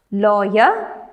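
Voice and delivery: "lawyer" with the weight on LAW; stress on first syllable. Shown as a demonstration. Teacher reading words to students, "lawyer" stressed on LAW. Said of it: "stress on the first syllable".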